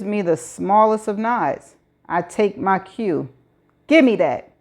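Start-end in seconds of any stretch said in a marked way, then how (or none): 3.9-4.5 shout. Acted. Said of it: "I shout".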